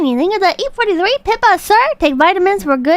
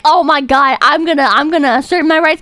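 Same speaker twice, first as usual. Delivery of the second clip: lower, mock self-righteous whine; mocking smug voice; 3 semitones lower than usual. Sneering parody of a rights speech. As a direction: streamer mocks a man insisting on his rights, sarcastic. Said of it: "This is not the time to be like".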